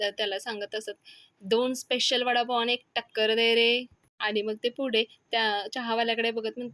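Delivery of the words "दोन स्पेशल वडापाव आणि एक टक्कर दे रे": tea-stall order called out; a touch louder, calling an order across; mildly raised voice. Acted. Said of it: "मोठ्या आवाजात". (जरा मोठ्या आवाजात)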